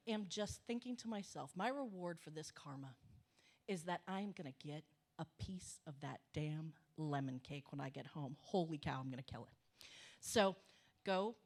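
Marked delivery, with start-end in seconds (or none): 1.6-9.9 inner thought. Retold or imitated. Secret thought about the lemon cake.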